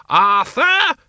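high, loud yell of his name; shout. Acted. Doreen yells at the stubborn Arthur, a loud command. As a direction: bark his name to make him obey.

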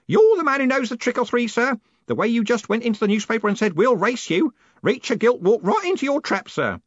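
put-on high, loud old man's crowing; old Grote, admiring. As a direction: praise the boss's cunning gleefully.

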